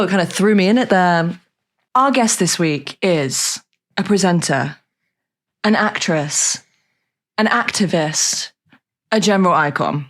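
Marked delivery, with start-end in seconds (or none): 1.9-10.1 formal guest introduction. Real, not acted.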